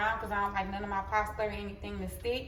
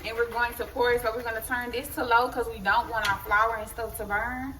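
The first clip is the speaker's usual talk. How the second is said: polished cooking show host voice; chef voice. Real, not acted. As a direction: talk like a TV chef presenting. Talk regular.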